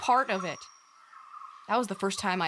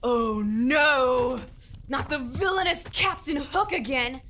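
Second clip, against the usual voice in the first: make-believe hero; 4 semitones higher, 3 dB louder than usual. Pretend. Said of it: "This isn't one of your games".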